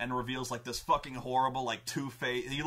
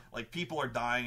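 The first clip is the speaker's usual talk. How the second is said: ordinary talk, nothing marked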